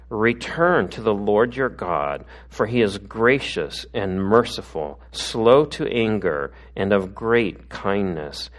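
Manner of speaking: slow, measured reading of the Bible passage; scripture reading. Acted. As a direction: read it slowly and solemnly, letting each phrase land. Reads scripture passage aloud.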